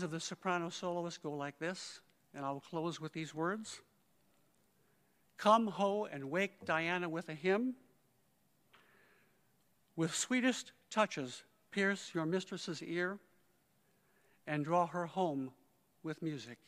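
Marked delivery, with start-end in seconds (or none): 5.4-16.6 slow, measured verse reading; poetry recitation. Acted. Conductor closing a tribute with Shakespeare's lines, measured recitation. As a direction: recite it slowly, letting each phrase stand.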